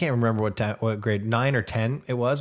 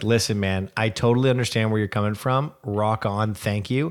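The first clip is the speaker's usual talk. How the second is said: lowered, laid-back bro voice; 1 guy voice; 3 semitones lower than usual. Retold or imitated. Husband voicing a bro reply, in a lowered bro voice. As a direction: play a chill guy brushing it off. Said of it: "be like".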